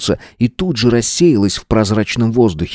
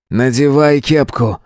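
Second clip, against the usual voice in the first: slow, firm order, slightly raised pitch; commanding; 4 semitones higher than usual. Acted. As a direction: give a measured, firm command. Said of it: "приказал Свободин".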